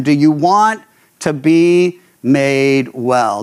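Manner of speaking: slow, tender asking of the sick man; unhurried tender question; gentle question. Retold or imitated. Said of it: "he said to him".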